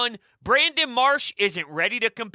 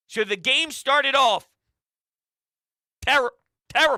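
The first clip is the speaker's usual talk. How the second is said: speaking with hiccups. Recapping a bad Phillies game, hiccuping. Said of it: "I got the hiccups".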